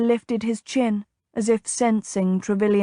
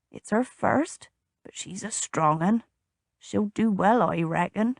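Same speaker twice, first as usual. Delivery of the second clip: put-on old groom; 5 dB quieter than usual. A narrator's reading. Old groom reassures about mare.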